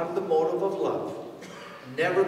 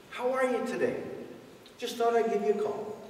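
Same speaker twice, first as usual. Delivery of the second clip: cheerful phone greeting; 3 semitones higher, 3 dB quieter than usual. Retold or imitated. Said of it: "a happy, cheerful voice".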